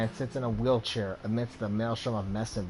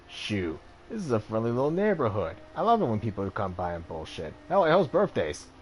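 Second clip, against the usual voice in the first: lightly voiced jovial doctor. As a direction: play the cocky back-alley doctor, grinning. Game master voices Ambrose.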